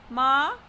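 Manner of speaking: "ma" dipping, then rising; falling-rising tone on "ma"; third tone. Shown as a demonstration. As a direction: swing "ma" up from a dip. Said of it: "with third tone".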